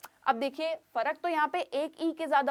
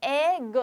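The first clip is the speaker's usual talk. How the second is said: एग said louder, alone and clear; stressed egg; 5 dB louder than usual. Shown as a demonstration. Teacher models एग clearly for students, stressed. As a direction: hit एग firmly as a model. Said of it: "तभी हम उसको एग बोलते हैं".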